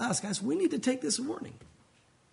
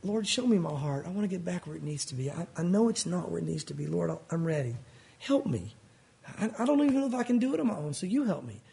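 humble prayer; 3 semitones lower than usual. Pretend. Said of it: "And then".

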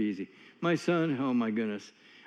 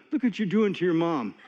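laughing. Real, not acted. Laughing while quoting himself.

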